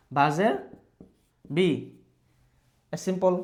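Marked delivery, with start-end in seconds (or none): 1.6-1.7 বি said as a short "bi"; teacher's demo sound. Shown as a demonstration. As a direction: model বি for the class. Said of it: "কি হলো?". (বি ছোট করে উচ্চারণ)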